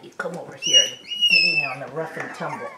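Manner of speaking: high, fast, loud call to the pups. Real, not acted. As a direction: squeal it out to the puppies. Calling puppies to play.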